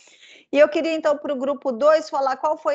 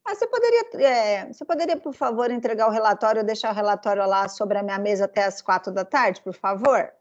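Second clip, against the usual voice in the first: polite request; 2 semitones lower, faster than usual. Retold or imitated. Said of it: "um chefe ele não diria assim".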